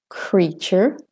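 "creature" with an American r at the end. Shown as a demonstration. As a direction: sound the American r ending "creature". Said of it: "sorry, wrong accent".

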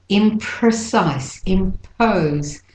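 Imprecise and impose slow, P puffed with air; airy P. Shown as a demonstration. Teacher showing the P, Imprecise, impose with aspirated P. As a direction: release a big puff on the P of Imprecise, impose. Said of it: "said with a lot of air".

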